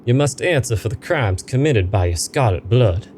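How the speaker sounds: a hint of a ghostly judge demanding repentance; lightly voiced spirit pressing for an answer; stern ghost. Ghost accuses characters.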